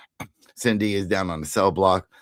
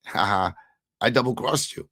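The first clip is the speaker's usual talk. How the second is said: lightly acted taunt, rising higher; mock gloating; 4 semitones higher than usual. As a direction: rub in the betrayal with a mock laugh. Acted gloating at betrayed Frank.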